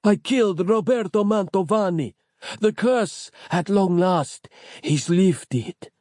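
proud but out of air; gasping Capello. A narrator's reading. Capello gasping his triumph to Nick. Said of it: "gasping for breath".

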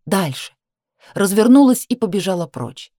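plain reading voice

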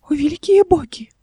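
high, slow breathless whisper of delight; squeaky whisper. A narrator's reading. Uncle alone at the gift box, squeaking in awe. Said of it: "пропищал он".

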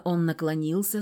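usual speaking voice

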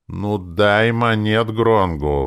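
high, loud, drawn-out plea; stretched-out imploring; pleading. A narrator's reading. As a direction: beg for the money. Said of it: "взмолился я".

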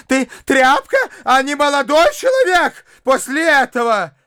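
high, shrill-pitched scolding tirade; scolding shriek. A narrator's reading. Mother berating her son, high scolding tirade. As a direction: tear into him, voice pitched high. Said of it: "продолжала она вопить, набрасываясь на сына".

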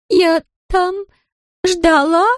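put-on high, slurring drunken woman; slurred drunk speech. A narrator's reading. Drunk Larisa complains to Ramsey, high and slurred. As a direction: slur it like she's had far too much. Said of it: "заплетающимся языком сообщила Лариса".

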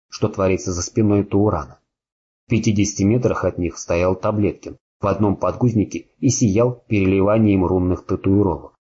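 plain reading voice

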